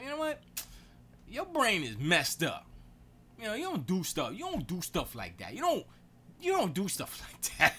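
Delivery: loud, high acted telling-off; exasperated scolding. Telling spouse you don't do stuff like that, exasperated. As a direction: scold with heavy, repeated emphasis.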